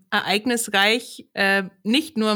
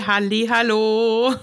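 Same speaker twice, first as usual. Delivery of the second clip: cheery greeting; 4 dB louder, slower than usual. Real, not acted.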